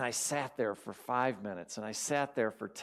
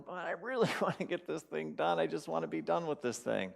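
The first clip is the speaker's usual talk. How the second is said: higher-pitched, insistent whine; acting out his own stubborn wish; retold frantic pleading; 5 semitones higher than usual. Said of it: "I'm just swirling".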